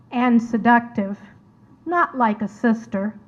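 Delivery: measured dramatic monologue in verse, spoken as the painter's sister; poem recitation. Acted. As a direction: read it as verse, lingering between phrases. Reads her poem aloud.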